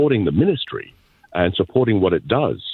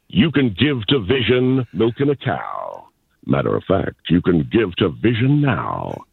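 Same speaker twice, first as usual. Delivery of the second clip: ad jingle read. Shown as a demonstration. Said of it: "I'll try something on the spot".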